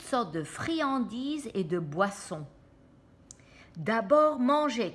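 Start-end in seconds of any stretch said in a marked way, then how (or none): 3.8-4.9 louder, higher eager shout; Sam shouting. A narrator's reading. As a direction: demand the food first, loudly. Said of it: "crie Sam".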